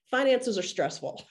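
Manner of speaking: real laugh breaking in; laughing admission. Real, not acted. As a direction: laugh through "Finances are stressful.". Admits the truth, laughing.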